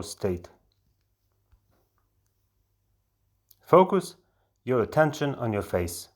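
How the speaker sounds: measured meditation guide with long pauses between phrases; guided meditation. Acted. Guide leading a volunteer into an altered state, guided meditation delivery. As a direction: lead them step by step, leaving space after each instruction.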